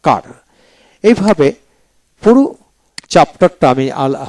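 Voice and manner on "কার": "কার" closed with a sounded r; r-ful American কার; American car. Shown as a demonstration. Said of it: "আমেরিকানে কার উচ্চারিত".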